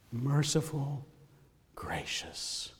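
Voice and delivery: whispered close; fading to whisper. Real, not acted. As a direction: let it fall away into breath. Trailing off to a whisper.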